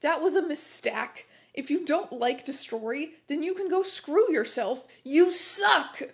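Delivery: indignant rant building to a loud finish; mild ranting. Acted. Angry author's note to flamers.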